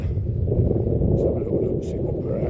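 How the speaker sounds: breathless, panting between words; winded from the altitude; out of breath. Real, not acted. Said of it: "I'm out of breath".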